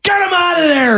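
very high, strained mock yell; imitated coach yelling. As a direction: act out a coach yelling someone off the field. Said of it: "and yelled at".

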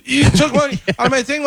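mock outrage at being robbed; indignant victim. Prank victim to prankster, mock outraged.

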